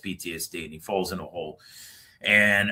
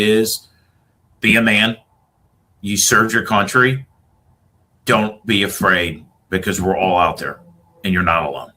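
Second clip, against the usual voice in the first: louder, earnest call to fellow veterans; rallying call; 8 dB louder than usual. Real, not acted. Veteran urging others to seek help, raised earnest voice. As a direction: drive the message home to them. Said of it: "the message I'm gonna say to everybody".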